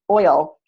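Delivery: OIL said as a clear word on its own; word shown. Shown as a demonstration. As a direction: say oil carefully as the example word. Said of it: "does the word oil".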